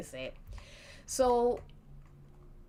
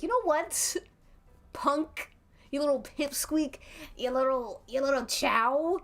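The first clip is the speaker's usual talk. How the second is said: higher, taunting gruff voice; gruff tough guy; 5 semitones higher than usual. Acted. Angry bar brawler belittling the wizard, gruff mock menace. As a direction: spit out insults like a brawler. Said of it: "I'm trying to do the voice".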